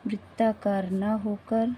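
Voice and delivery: slow, even dictation of वृत्ताकार ना होकर; unhurried dictation pace, each word of वृत्ताकार ना होकर set apart. Shown as a demonstration. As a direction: read वृत्ताकार ना होकर slowly for students to write down. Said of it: "अब बोलते हैं इसे".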